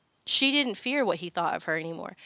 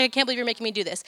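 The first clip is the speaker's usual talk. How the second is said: upset son; much faster than usual. Retold or imitated. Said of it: "He's like".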